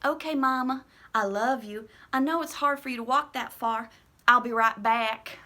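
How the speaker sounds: put-on a small boy reassuring his mother; eager little boy. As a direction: answer Mama like an obedient eight-year-old. Young boy answering mother.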